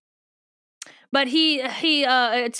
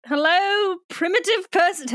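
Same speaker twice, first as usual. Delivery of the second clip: mock condescending alien; 7 semitones higher than usual. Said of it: "He doesn't actually say that".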